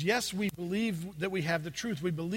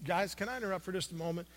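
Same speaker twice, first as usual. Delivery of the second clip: polite; 6 dB quieter than usual. Retold or imitated. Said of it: "very politely said".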